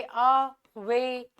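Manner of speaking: "अवे" pulled apart slowly, अ then वे; slow syllable-by-syllable "अवे", landing on वे; stress on WAY. Shown as a demonstration. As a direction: draw out वे after a separate short अ in "अवे". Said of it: "stressed वे पे हो रहा है".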